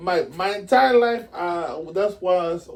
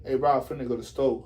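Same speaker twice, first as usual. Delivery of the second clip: slangy lingo; 4 semitones lower, 3 dB quieter, faster than usual. Shown as a demonstration. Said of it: "Or you can say".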